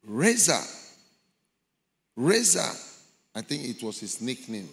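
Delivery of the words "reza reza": loud high call of a name. Retold or imitated. Voices in hell calling out his name.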